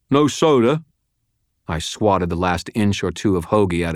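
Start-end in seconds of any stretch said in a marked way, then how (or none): 0.1-0.8 high, loud question round food; mouth full. A narrator's reading. Prisoner chomping a sandwich, mouth-full complaint. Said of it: "he said through a mouthful of food".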